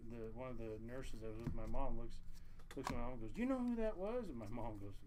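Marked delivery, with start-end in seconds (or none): 3.3-4.3 higher, eager gossip; imitating a thrilled nurse, lightly; mock starstruck whisper-gossip of a coworker; excited nurse. Nurse voiced in retold story.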